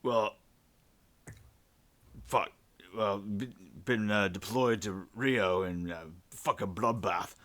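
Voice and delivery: lightly put-on Kiwi accent; a weary Kiwi accent, halting over the words; New Zealand accent. Deployed pilot recounting a bloodbath, New Zealand accent. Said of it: "start speaking with the, this accent".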